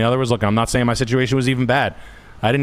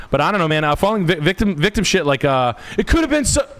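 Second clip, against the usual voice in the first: higher-pitched mock victim; mock victim whining; 7 semitones higher than usual. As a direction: put on a higher voice to mock self-pity. Mocking victim talk, cut off.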